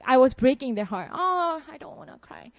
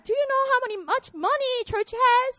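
uncle boasting; 9 semitones higher than usual. Retold or imitated. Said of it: "He was like".

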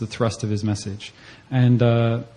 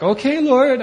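reluctant okay; 13 semitones higher, 6 dB louder, slower than usual. Retold or imitated. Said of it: "So I was like".

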